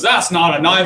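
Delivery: hammed-up Crocodile Dundee Australian accent; showing off a bad Australian accent for the class. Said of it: "Flawless Australian accent".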